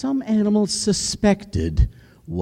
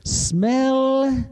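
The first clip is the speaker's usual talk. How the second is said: deep, slow menacing lion voice; low, drawn-out royal lion; lion king; 10 semitones lower, slower than usual. Acted. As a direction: growl the test like a hungry king. Lion speaks to the animals.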